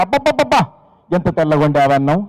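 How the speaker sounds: mock rapture over white rice; overdone admiring husband; gushing praise. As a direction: ham up the delight at plain rice. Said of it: "ఎలా అభినందిస్తున్నాడు చూడండి".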